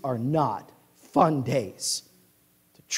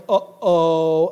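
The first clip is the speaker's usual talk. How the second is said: ominous uh-oh; 7 dB louder than usual. Acted. Dad foresees trouble.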